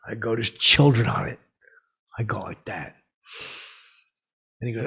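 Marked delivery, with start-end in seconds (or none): 0.3-1.4 loud scold. Retold or imitated. Scolding Elon's joke.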